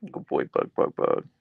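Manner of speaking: hushed whisper to the dog. Real, not acted. Owner whispering praise to her dog, hushed. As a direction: whisper softly to the husky.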